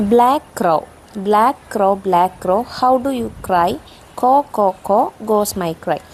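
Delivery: put-on lightly lilting children's verse; poem recitation. Shown as a demonstration. Teacher reading a model crow poem to pupils, gentle recitation. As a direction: read the verse out in measured, separate phrases.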